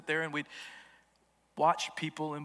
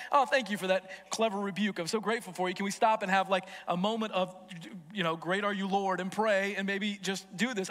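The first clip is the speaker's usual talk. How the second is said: mock grateful; 3 semitones higher than usual. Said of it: "I wasn't like".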